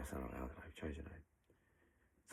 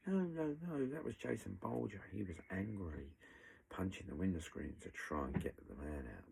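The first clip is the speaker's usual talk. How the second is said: mocking Bright; 2 semitones higher than usual. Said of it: "good old meticulous Bright would say".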